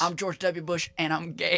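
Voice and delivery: lightly voiced Texan ex-president; George W. Bush. Comic confessing as the president, mild Texas drawl. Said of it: "Now we're just doing George W. Bush".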